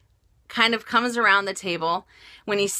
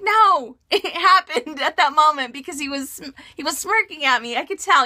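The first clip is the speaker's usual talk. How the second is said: insistent protest; 4 semitones higher than usual. Retold or imitated. Acted argument with reassuring husband.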